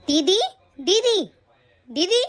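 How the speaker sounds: calling didi from outside the room, drawn out; calling out loudly. Acted. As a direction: bang on the door and call her name. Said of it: "आप इतनी जोर जोर से क्यों चिल्ला रही हैं?". (भाभी ननद को ज़ोर से आवाज़ लगाती है, पुकारती हुई)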